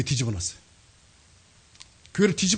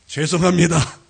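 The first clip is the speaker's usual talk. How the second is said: retold apology; 7 dB louder, slower than usual. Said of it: "사과를 했어요".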